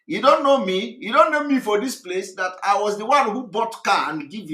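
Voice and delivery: mock outrage. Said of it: "Zubi Michael say".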